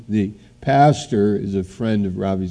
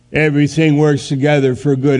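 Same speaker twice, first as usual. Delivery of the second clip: "Everything works together for good" scoffed, higher and louder; sarcastic; 5 semitones higher, 4 dB louder, faster than usual. Acted. Preacher mocking the verse to his congregation, sarcastic.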